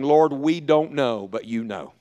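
slow, soft, low surrender; dependent prayer. Acted. Believers admitting dependence on God, humbly hushed. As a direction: pray it slowly and let the end drop almost away.

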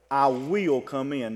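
slow, firm weight on "will"; stress on WILL. Shown as a demonstration. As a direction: lean on "will" as a sure promise. Contrasts promise with "might.

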